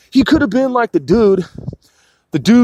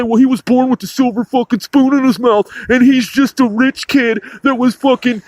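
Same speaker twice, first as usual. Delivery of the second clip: a lightly put-on whiny critic, pitched a bit up; sneering impression of a dismissive critic; mocking critic voice; 3 semitones higher than usual. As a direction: parody the naysayers who call him a toddler. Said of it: "for someone to say".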